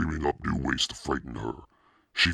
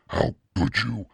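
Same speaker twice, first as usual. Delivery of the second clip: high, sharp angry question; angry demand; 8 semitones higher, 4 dB louder than usual. Acted. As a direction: throw it at him in fury. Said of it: "she demanded".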